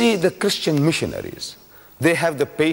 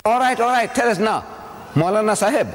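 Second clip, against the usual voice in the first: mocking challenge; 6 semitones higher than usual. Reverend's taunting question retold.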